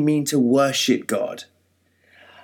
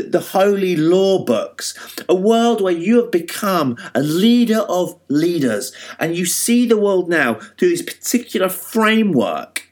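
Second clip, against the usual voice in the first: voicing Jesus; 4 semitones higher than usual. Preacher voicing Jesus at length.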